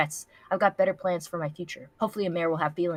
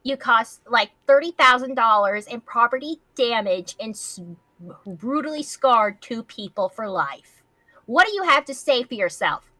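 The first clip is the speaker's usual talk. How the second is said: loud, higher stern scolding, half laughing; scolding principal; 5 semitones higher, 6 dB louder than usual. Acted. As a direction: tear into him like an angry principal.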